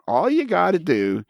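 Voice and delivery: high, chirpy mock computer prompt; mockingly easy-sounding instruction, pitched high; computer message. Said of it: "kept giving me this message saying".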